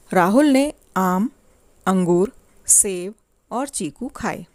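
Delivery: short pauses after "आम" and "अंगूर", slow list; comma pauses. Shown as a demonstration. Teacher gives children a comma example, pausing briefly after आम and अंगूर. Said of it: "जहाँ थोड़ी देर रुकना हो".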